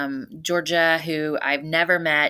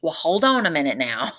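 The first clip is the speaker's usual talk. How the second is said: put-on Southern accent. Dad stalling his newfound daughter, imitated Southern accent. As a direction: imitate a North Louisiana dad's accent, lightly. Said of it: "In his Southern accent".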